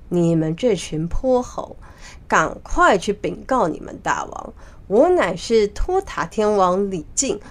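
lightly voiced imposing general; stern heavenly general. Heavenly King orders the monkey gatekeepers, mildly imperious. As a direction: give firm orders, a touch of swagger. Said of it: "他现在这样雄赳赳气昂昂的样".

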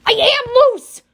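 high, loud protest; defensive snap. A narrator's reading. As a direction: shout that you're relaxed. Tense Talia snapping back.

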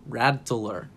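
Rattler drawn into careful syllables; careful attempt at Rattler; trying out pronunciation. Real, not acted. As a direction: sound out Rattler slowly, syllable by syllable. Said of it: "I don't know how to say it".

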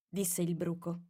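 plain reading voice

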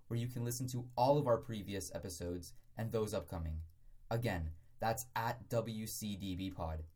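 measured, evenly delivered plug; podcast promo read. Acted. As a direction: read out the show's social plug.

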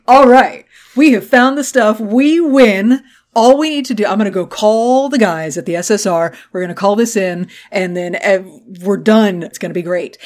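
a lightly played triumphant Peggy; voicing Peggy.

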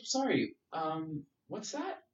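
high, puzzled mock barista voice; baffled barista. Barista confused by a Canadian order, high puzzled voice. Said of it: "They're like".

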